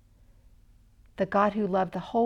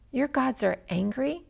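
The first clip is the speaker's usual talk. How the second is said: puzzled question, a touch higher; surprised; 4 semitones higher, 3 dB quieter than usual. Acted. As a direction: ask it in mild disbelief. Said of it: "asked Patrick, surprised".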